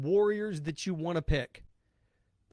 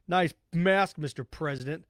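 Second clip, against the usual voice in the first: mock sneer. Shown as a demonstration. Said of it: "See how ridiculous that sounds?".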